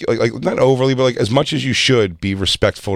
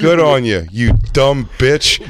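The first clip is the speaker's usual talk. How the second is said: mock praise, slow drawn-out insult; mocking congratulations; 2 semitones higher, 4 dB louder, slower than usual. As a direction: stretch out the parting jab. Mocking parting insult to cop, retold.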